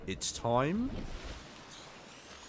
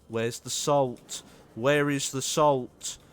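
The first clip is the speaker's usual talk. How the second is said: very slow, louder, scared snail; very slow slimy snail voice; 4 semitones higher, 9 dB louder, much slower than usual. Acted. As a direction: drag it out like a frightened snail. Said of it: "a snail that is scared of interrogation".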